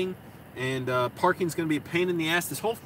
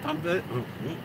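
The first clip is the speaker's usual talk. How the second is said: voice cracking; 4 dB quieter than usual. Real, not acted. Switching into Spanish for viewers, voice cracking. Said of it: "my voice is cracking up".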